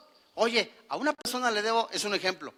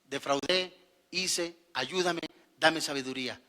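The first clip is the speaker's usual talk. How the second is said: mock contrite prayer; 6 semitones lower, 6 dB quieter than usual. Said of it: "Pero ahora vienes".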